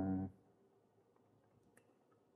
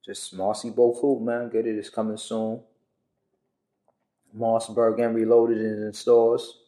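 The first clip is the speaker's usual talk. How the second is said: talking while chewing food; mouth full. Real, not acted. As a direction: speak around a mouthful of food. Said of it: "Pardon me for eating".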